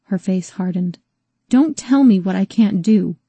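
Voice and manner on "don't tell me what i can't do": hard defiance. Acted. Rose defies Calvin.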